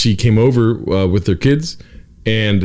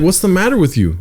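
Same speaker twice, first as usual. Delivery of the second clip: higher, lightly voiced mom asking; a hint of a puzzled mother; mom's question; 7 semitones higher than usual. Son retelling mom's FaceTime question, lightly higher. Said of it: "She's like".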